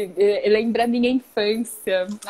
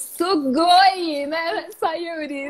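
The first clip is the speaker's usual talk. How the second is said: excited; 4 semitones higher, slower than usual. Real, not acted. Praising papers in Japanese.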